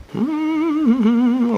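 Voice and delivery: high, drawn-out hum; idle hum. Real, not acted. Looking for the next one, high idle hum. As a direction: hum while you search. Humming while finding the next story.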